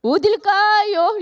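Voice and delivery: teasing dodge. Retold or imitated. Dodging the pastor's question with a slow tease. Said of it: "이 말을 먼저 듣기 원하는데".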